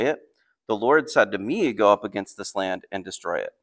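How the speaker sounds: measured, emphatic Bible reading; scripture reading. Acted. Assyrian envoy challenging the city, read aloud as scripture. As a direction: read it out as a firm proclamation. Reads the enemy's speech from scripture.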